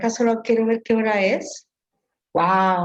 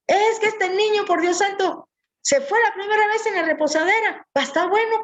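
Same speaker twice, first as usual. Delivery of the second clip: higher, lightly voiced complaining mother; imitating the mother; 6 semitones higher than usual. Speaker imitates a mother complaining about her son, lightly voiced and higher. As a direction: play the exasperated señora. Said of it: "Entonces decía la señora".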